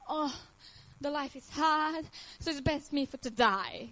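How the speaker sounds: slow, drooping mock whine about how hard life is; mocking her would-be self-pity, slow and sorry. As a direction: sigh it out like a defeated victim. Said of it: "I was not the one who was like".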